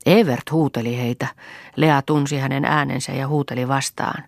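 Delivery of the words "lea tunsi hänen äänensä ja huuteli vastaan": usual speaking voice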